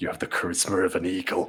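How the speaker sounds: quiet, whispered voice. In a tabletop game, a player voices their character whispering to oneself. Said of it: "and whisper to myself".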